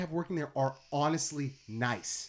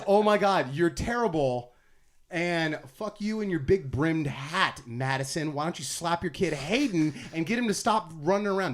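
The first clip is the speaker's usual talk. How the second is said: mock yell; 4 dB louder than usual. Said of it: "That's my ride".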